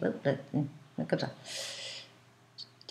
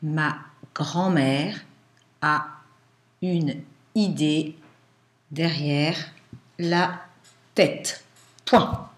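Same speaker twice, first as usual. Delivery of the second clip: dictating; much slower than usual. Shown as a demonstration.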